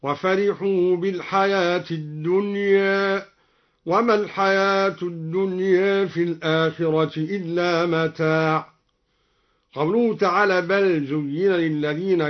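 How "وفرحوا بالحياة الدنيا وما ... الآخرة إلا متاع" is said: "الدنيا" with the final a slightly tilted toward e; taqlil on الدنيا. Shown as a demonstration. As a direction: recite "الدنيا" as dunyeh, a half-tilted vowel. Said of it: "وقلل الدنيا من قوله تعالى". (تقليل ألف "الدنيا" بين الفتح والإمالة)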